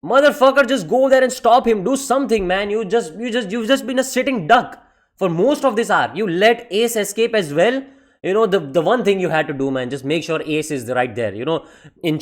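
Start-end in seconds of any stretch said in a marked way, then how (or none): 0.0-7.8 mock furious rant. Imitating Whitebeard yelling at Sengoku, furious. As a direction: chew out a useless admiral. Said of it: "he was like".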